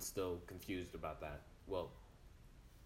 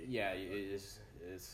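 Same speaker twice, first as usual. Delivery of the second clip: bitcrushed; 2 semitones lower, 4 dB quieter, slower than usual. Real, not acted. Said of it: "Your mic is glitchy".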